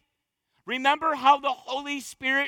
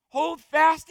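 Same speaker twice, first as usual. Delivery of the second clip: louder and higher; forceful cry; 3 semitones higher, 5 dB louder than usual. Real, not acted. Preacher crying out to the church, louder. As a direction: hit it hard. Climax of exhortation.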